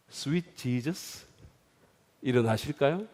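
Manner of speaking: soft, slow, syrupy coaxing; a mock-gentle, slow wake-up; mock sweet. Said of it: "그랬을까요?".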